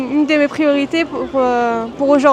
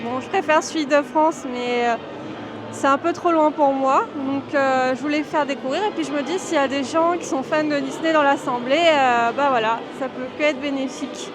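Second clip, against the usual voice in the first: muffled behind a face mask; talking through a mask; 4 dB quieter than usual. Real, not acted. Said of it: "je parle avec le masque".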